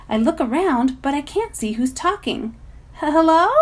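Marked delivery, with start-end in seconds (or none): 2.9-3.5 loud nervous call. A narrator's reading. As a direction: call into the snow. Calling to hidden figure.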